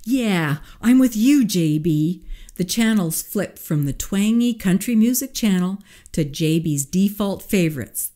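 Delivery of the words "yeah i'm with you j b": eager assistant. A narrator's reading. Harry voiced.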